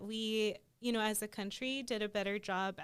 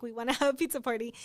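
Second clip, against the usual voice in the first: put-on eager kids; 3 dB louder, much faster than usual. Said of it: "we were like".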